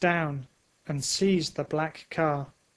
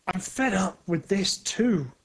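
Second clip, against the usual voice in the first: a fed-up grumble, a touch higher; 4 semitones higher than usual. A narrator's reading. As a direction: Thunder grumbles at the quake, mildly annoyed. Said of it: "he says".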